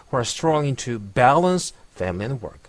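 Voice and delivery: very slow, who kept light, balance stressed; slow teacher demo, weak who; slow demo reading. Shown as a demonstration. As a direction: drag it out, lean on balance. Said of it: "who 같은 관계대명사는 사실 크-, 세게 발음하지 않죠".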